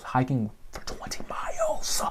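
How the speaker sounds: drops to a breathy whisper for effect. Real, not acted. Vlogger to viewers about the long hike, whispering. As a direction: whisper the distance like it still hurts. Stressing how far the hike was.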